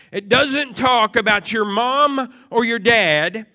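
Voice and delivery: insistent preaching in repeated, building phrases; emphatic preaching. Real, not acted. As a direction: punch each item of the list.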